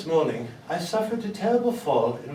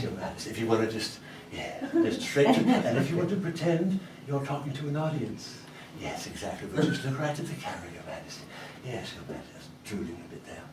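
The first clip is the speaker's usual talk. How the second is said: much softer, lower, coaxing director; hushed coaxing; 7 semitones lower, 8 dB quieter, faster than usual. Acted. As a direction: soothe the Queen like a nervous director.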